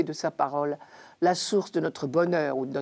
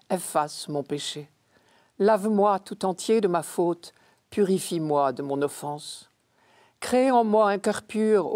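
measured, solemn scripture recitation; psalm reading. Acted. Reader proclaiming Psalm fifty to the faithful, solemn recitation. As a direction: recite it as a prayer, phrase by phrase.

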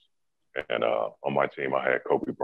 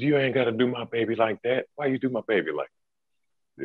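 much higher, pleading mother; protective mom voice; 9 semitones higher than usual. Retold or imitated. Mom protesting for her son, much higher mock plea.

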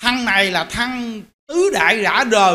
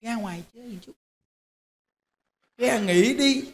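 tempting inner voice; 8 dB quieter than usual. Retold or imitated. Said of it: "Nó kêu vậy nè".

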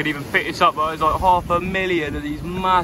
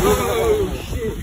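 startled; 4 dB louder than usual. Real, not acted. Sudden startle at crabs.

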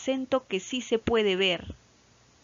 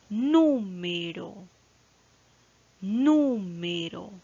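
número said slowly, NÚ long and strong; stress on antepenultimate syllable; much slower than usual. Shown as a demonstration. Teacher demonstrating the accented syllable, NÚ stressed in número. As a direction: lean hard on the NÚ of número. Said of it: "la mayor fuerza de voz está".

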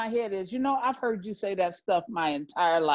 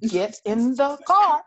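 higher, louder, firm command; a higher, louder insistent order; louder repeated order; 6 semitones higher, 6 dB louder than usual. Retold or imitated. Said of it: "I said".

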